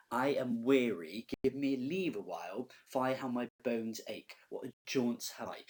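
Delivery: loud, drawn-out complaint; a touch of theatrical weariness, slow and emphatic; lightly acted weary Nurse. Teacher reading the Nurse's complaint to students, lightly acted weariness.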